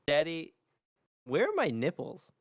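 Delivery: dad mimicking his little girl's question; young daughter's voice. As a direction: imitate your small daughter asking Daddy.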